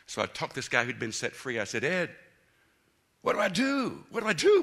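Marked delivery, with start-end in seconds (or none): 1.8-4.1 retold desperate plea. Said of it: "I'm kinda desperate". 4.1-4.6 higher and louder, rising at the end; desperate repeat. Retold or imitated. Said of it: "I'm kinda desperate".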